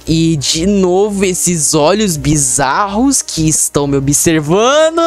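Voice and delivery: slow, drawn-out dread; ominous drawl. Real, not acted. Gamer noticing eyes watching him, ominous drawl. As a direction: draw it out slowly, low in pitch.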